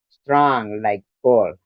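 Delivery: slow mock Russian accent; lightly put-on Russian accent. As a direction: say it slowly like a stock Russian strongman. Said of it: "Russians don't really talk like that".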